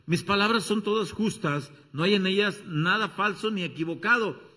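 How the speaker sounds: loud, urgent proclaiming; wisdom personified. Acted. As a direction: call out like Wisdom herself. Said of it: "Está personificando a la sabiduría".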